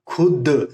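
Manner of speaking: खुद said alone and pressed; a teacher isolating खुद; stress on खुद. Shown as a demonstration. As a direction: lean into खुद as a lone word. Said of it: "खुद के ऊपर थोड़ा stress देना पड़ेगा".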